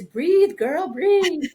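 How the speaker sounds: high, loud mock order to breathe; exaggerated, high-pitched nagging shout; imitated urgent command. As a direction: holler it like a teasing uncle. Uncles urging her to breathe.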